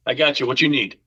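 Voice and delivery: lightly imitated Boston bartender; a touch of Boston in the voice; Boston accent. Bartender offering to serve the customer, light Boston accent. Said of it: "Bostonian accent".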